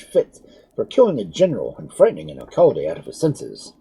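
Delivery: high, loud breathless rage; furious scolding. A narrator's reading. Fat alcalde condemning the doctor, enraged. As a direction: berate him without pause. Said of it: "cried he".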